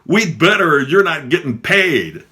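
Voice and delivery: high, loud mock heckle; heckling nun. Nun interrupting the speaker's welcome, loud high heckle. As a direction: cut in like a heckler, pitched well up. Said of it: "I'm being heckled by a nun".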